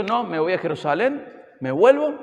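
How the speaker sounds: defiant Paul refusing. Retold or imitated. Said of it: "Él podría haber dicho".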